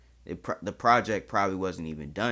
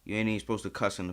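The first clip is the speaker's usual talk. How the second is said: louder, higher protest at the insult; mock offended; 5 semitones higher, 7 dB louder than usual. Real, not acted. Reactor answers a video that cursed at viewers, offended. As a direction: complain loudly, easing down as you go.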